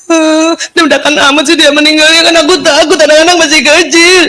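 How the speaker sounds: mildly afraid friend. Retold or imitated. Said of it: "kalimatnya begini".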